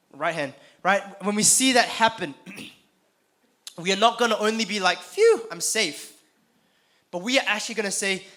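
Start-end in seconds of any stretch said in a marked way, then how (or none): 5.0-6.1 mock relief.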